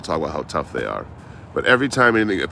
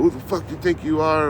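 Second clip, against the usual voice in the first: high-pitched mock yell, only a little louder; retold yelling; 11 semitones higher, 3 dB louder than usual. Angry traveler challenging him as he gets up, mock yelling. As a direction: imitate an angry man yelling. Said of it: "He's yelling".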